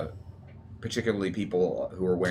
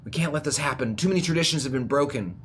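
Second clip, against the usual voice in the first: lightly voiced objector, pitch raised; a touch of urgent pleading, higher; protesting traditionalist; 4 semitones higher than usual. Game master voices a crowd member urging others, mild protest. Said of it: "He goes".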